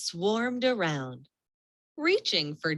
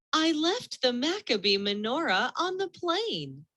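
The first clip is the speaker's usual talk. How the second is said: cried out; 8 semitones higher than usual. A narrator's reading. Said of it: "she cried".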